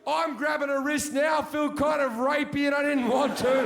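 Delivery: loud, high frantic telling of the struggle; rising panic as the car scene unfolds; shouting the chaos of the skid and slapping; building shouted retelling. Retold or imitated.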